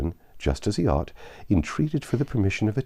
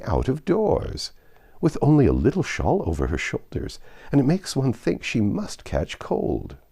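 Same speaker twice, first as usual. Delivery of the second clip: a lightly voiced fretful old man; fussy old father; 6 semitones higher than usual. Old father fussing over the portrait, mildly fretful. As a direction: gently fret over the shawl.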